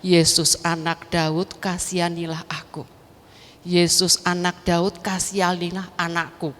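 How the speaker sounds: recited prayer. Retold or imitated. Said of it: "Doa saya hanya". (melafalkan doa permohonan dengan pelan)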